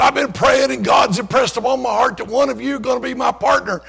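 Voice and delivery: preacher calling his partner before the group; fervent preaching. Retold or imitated. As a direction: announce it like a prophecy. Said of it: "And so he said".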